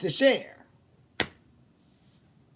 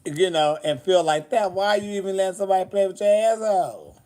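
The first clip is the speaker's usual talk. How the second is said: mock scolding; 3 semitones higher, 4 dB louder than usual. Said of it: "I'm like".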